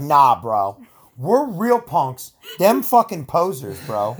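slow, drawn-out cocky bro; mock punk bro. Founders boast they are real punks, slow cocky bro voice. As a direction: lean back and brag like a punk.

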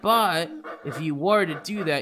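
high, odd little creature voice; a nervous kobold explaining. Acted. Kobold speaks again.

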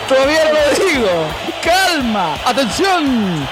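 rapid excited radio goal call; goal commentary. Acted. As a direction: build it up, then scream gol.

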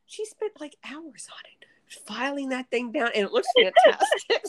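high laughing voice, breaking up; laughing retelling. Retold or imitated. Retelling the daughter's praise of the desk, laughing high. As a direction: squeak it out through giggles.

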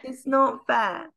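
mock whining. Host in winter envies guest's sunny weather, mock whining. Repeats mock complaint, drawn out.

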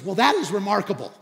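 loud, emphatic retort; bolder. Retold or imitated. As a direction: stand up and answer boldly. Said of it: "he's just getting bolder".

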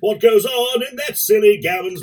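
lightly voiced cockney singalong; sing-talk it like an old East End pub song; cockney music-hall singer.

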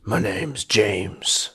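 a wise elder sharing an ominous tale; old monkey James. Acted. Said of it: "He says".

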